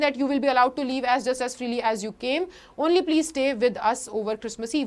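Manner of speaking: slow, careful read-aloud of the text; slow story reading. Acted. Teacher reading the English text to class, slow and careful. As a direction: read each word out slowly for students.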